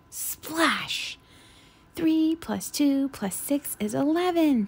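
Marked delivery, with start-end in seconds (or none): 2.0-4.7 mock scream. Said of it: "Thistle screamed".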